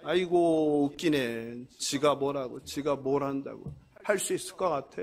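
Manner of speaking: low, scornful scoffing; a mocking enemy belittling the builders; sneering mockery. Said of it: "그리고 비웃는 거죠".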